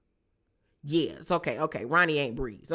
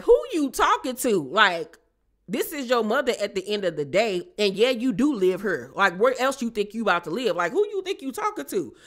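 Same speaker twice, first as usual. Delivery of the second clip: mock scolding; 5 semitones higher, 4 dB louder than usual. Marvin scolding Kanan.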